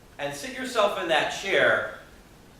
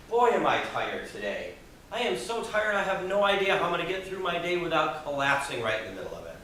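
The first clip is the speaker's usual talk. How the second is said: mock tired complaint; 2 semitones higher than usual. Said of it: "You ever find yourself saying things like this".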